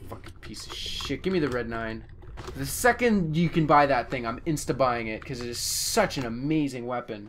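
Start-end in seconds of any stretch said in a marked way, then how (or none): 0.1-2.0 furious, angry whispered delivery. Complaining about getting a weak gun in a game: angry frustration. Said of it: "I'm so angry now".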